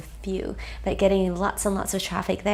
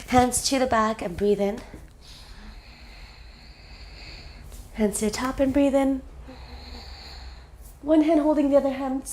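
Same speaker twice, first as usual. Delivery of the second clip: lilting, measured breathing instructions; slightly lifted meditation-guide voice; guided breathing meditation; 4 semitones higher than usual. Acted. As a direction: guide each breath, leaving room after it.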